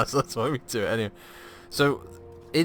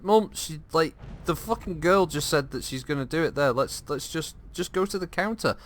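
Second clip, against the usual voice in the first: exasperated; 6 semitones higher than usual. Retold or imitated. Arguing with mum in queue.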